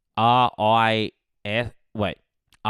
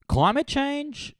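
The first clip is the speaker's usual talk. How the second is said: soaring trailer voice on the title; grand title; slower than usual. Shown as a demonstration. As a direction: announce the title high and slow. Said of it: "the movie is gonna be called".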